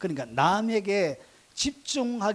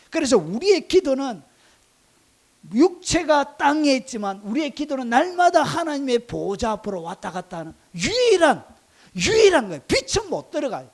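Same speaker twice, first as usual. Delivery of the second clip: raised, higher preaching voice; forceful preaching; 6 semitones higher, 7 dB louder than usual. Real, not acted. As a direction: drive the point home to the congregation, loud and high.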